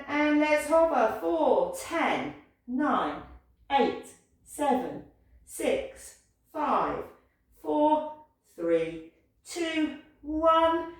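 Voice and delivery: counting down under physical strain; real exertion creeping into the voice; voice shaking. Real, not acted. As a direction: count through the effort of holding a hover. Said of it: "Can you hear my voice shaking?".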